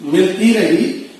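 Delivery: measured comic verse recital; mushaira recitation. Acted. Poet reciting wedding-sherwani couplet to the mushaira, declaimed. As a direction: recite each line out to the audience.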